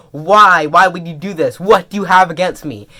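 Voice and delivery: mildly hysterical accusing questions; touch of frantic protest; mock hysterical. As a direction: act out a hurt, loud demand. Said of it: "he's getting all hysterical".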